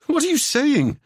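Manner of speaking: high, alarmed question; alarmed Seb. Acted. Seb alarmed at Ewan's words, high question.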